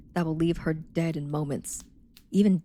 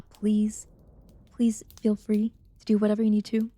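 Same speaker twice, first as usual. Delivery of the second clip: whispered aside; 3 semitones higher than usual. Real, not acted. Polite aside to chat.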